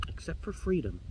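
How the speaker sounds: soft, understated reply with a sigh; sighing raven. Acted. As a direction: sigh it out gently as a quiet objection. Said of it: "the raven just sighs and says".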